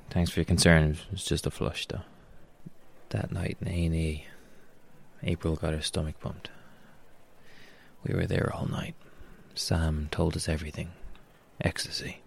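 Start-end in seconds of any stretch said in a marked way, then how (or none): 0.9-2.0 muttered to himself. Acted. Repeats to himself, quieter. 11.6-12.2 a single hushed word, softer; whispered. Acted. Revealing the drug.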